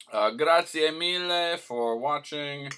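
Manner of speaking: host thanking viewers; Italian flourish. Pretend. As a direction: sign off with a mock Italian flair. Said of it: "sign-off in Italian".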